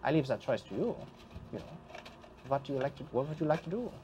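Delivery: put-on lilting accented host voice, pitch swooping up; theatrical ghost host, sly and courteous; ghostly host Alvin. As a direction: play a ghostly host welcoming a guest to a deadly game. Game master voices parlor host.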